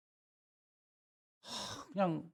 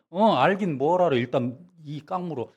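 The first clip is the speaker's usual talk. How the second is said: mock-annoyed dismissal; scoffing Jesus; 3 semitones higher, 5 dB louder than usual. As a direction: brush off the answer with a snort. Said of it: "제가 예수님이라면".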